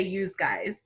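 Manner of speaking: "yous" with a z sound before "guys"; Northern US "yous guys". Shown as a demonstration. Explaining Northern American speech, "yous guys" with a voiced z. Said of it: "in the Northern area".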